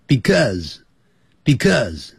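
"because" slowly, bi-cause; slow correct because. Shown as a demonstration. 老师慢速示范because. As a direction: drill "because" slowly and cleanly. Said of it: "这样念就可以了".

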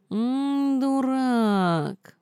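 высокий стон учёного кота: «М, дурак»; простонать «дурак» высоким протяжным голосом; стонущий кот. Acted. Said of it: "простонал кот учёный". (учёный кот стонет с досадой)

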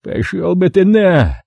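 slow, pained curse; a hint of a hoarse baritone in pain; pained hoarse man. A narrator's reading. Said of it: "с болью посоветовал хриплый".

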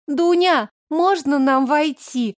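put-on high, drawn-out pleading child; child begging. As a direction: beg like a little girl. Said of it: "умоляюще протянула Белла".

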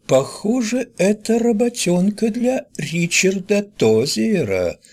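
high, slow booming newsreel announcer. A narrator's reading. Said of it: "голосом диктора кинохроники".

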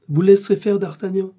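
high, loud order; forceful command cutting off objection. A narrator's reading. Athos overrules Porthos.

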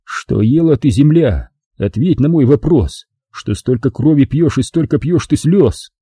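mild poetic declamation; declaiming verse. A narrator's reading. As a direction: recite it like a solemn poem. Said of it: "продекламировал".

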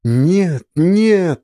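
put-on a mother losing her children, screaming in terror; hysterical cry. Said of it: "в истерике закричала она".

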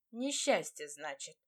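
wounded repeat of her word, trailing off low; stung. Acted. Demir, stung by her word, repeats it with hurt. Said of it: "уязвлённо уточнил он".

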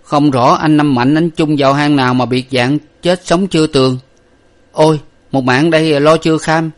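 worried lad muttering his plan aloud; servant boy talking to himself. A narrator's reading. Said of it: "cậu nói một mình rằng".

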